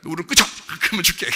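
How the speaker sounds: father tells the crying son to stop crying first; stern father. Retold or imitated. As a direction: bark the order like a fed-up dad. Father scolds a crying child.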